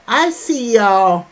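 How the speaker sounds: a warm shout-out to the chat, drawn out; emphatic greeting. Real, not acted.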